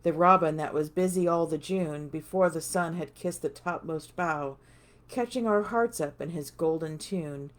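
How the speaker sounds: measured, expressive poetry reading; poem recitation. Acted. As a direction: recite the verse line by line, lifting each opening. Reads a poem aloud.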